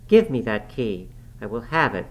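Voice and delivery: loud firm demand. Acted. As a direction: insist loudly, hand out. Catherine demands the key.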